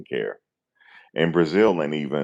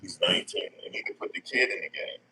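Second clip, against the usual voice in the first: whisper; 4 semitones higher, 7 dB quieter than usual. Real, not acted. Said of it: "drops to a whisper".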